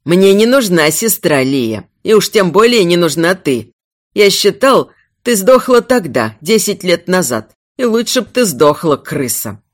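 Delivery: mildly venomous contempt; understated hatred; spiteful, hateful. Acted. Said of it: "злобный и ненавидящий".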